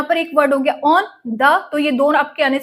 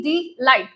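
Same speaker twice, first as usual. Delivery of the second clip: delight drawn out slowly, energy on "light"; stress on second syllable. Shown as a demonstration. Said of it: "last वाले में energy ज्यादा जा रही है".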